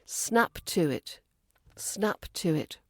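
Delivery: "Snap to it" with a clear t in "to"; don't let the t vanish in "Snap to it"; clear t stop. Shown as a demonstration. Teacher modelling "Snap to it", t a clear stop. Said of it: "The t in snap to is a clear stop".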